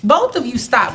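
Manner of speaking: firm, slowed order to stop; stern command. Real, not acted. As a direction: lay down the law. Judge cutting off quarrel.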